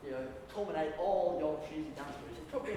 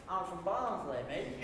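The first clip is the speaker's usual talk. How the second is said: broad Barnsley speech, level and matter-of-fact; broad Yorkshire accent; slower than usual. Acted. Date names their home town, broad Yorkshire accent. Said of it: "in a broad Yorkshire accent".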